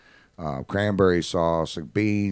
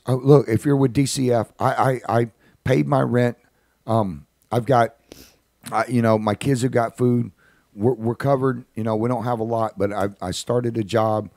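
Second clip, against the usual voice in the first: lightly voiced mother, pitched up; hint of a worried woman's higher voice; defensive mother; 4 semitones higher than usual. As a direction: imitate a mom anxiously justifying herself, higher and halting.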